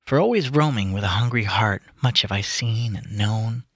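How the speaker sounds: slow, measured recitation; poem reading. Acted. Reading Tennyson to friends, earnest recitation. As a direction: read it with gravity, lingering. Reads Ulysses aloud.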